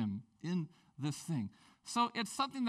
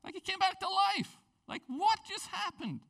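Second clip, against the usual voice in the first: amazed; 4 dB louder than usual. Real, not acted. Retelling a miracle in amazement.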